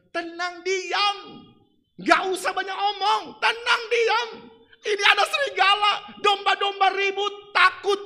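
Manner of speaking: loud, high commanding shout; imitating the pastor shouting at the noisy flock; pastor's shouted command. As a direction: bark the order to be still. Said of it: "Pendeta Revi Amondo itu bilang".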